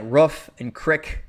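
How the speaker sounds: roof with a short vowel, crick rhyming with brick; Midwestern pronunciation. Shown as a demonstration. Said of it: "people said it like that".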